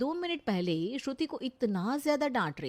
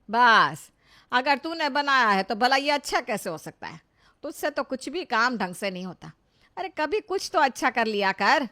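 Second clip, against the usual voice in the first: sharp, louder taunting of the daughter-in-law; scornful scolding; 6 dB louder than usual. Acted. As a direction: scold her with open contempt. Mother-in-law mocks Shruti's cooking. (बहू के खाने पर तंज कसती सास, तीखी डांट)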